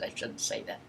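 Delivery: hushed whisper to herself; whispered aside. Real, not acted. Whispered aside about age.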